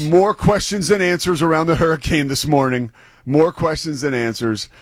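lightly put-on newscaster cadence; mock TV news delivery. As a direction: deliver it like a TV reporter's stock line. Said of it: "dipping into my T V news background".

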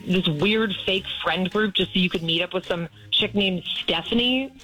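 real hurt anger, demanding answers; indignant. Real, not acted. Girlfriend confronting boyfriend caught cheating, indignant.

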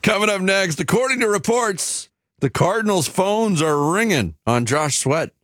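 upbeat sports radio announcer; radio promo read. Acted. Reads radio show promo.

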